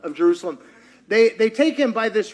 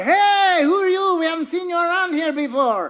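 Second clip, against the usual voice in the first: suspicious challenge; 10 semitones higher than usual. Retold or imitated. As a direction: stop a stranger and demand who he is. Servants challenge Peter loudly.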